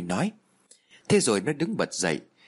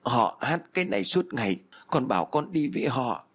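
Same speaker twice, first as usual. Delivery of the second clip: tearful; 3 semitones higher than usual. Acted. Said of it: "rồi nói trong tiếng mếu máo".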